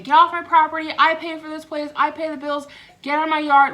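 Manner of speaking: grandpa yelling. Retold or imitated. Grandpa yelling at the family to leave his yard, loud and high. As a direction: bark it like an old man ordering everyone off his land. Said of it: "he's yelling at all of them".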